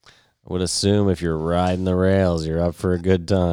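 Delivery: slow, measured parody of easygoing talk; lazily paced mock imitation; slow talker imitation. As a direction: draw it out a little, mimicking a slow talker. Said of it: "You just talk slowly".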